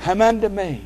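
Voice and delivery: lightly voiced young boy reciting his verse; a boy proudly saying his memory verse; a hint of a child reciting. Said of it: "And this is how he said it".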